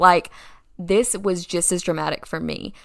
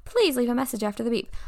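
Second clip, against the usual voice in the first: higher-pitched mock answering machine; recorded-message voice, put on higher; voicemail greeting; 5 semitones higher, 4 dB quieter, faster than usual. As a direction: imitate an automated phone greeting. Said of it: "and they said".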